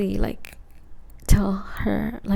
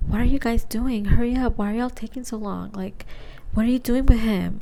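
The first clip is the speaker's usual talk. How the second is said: mildly worked-up, louder demanding questions; impatient nagging; 4 dB louder than usual. Retold or imitated. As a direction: imitate an impatient friend hurrying people up. Friend's impatient demanding texts acted out.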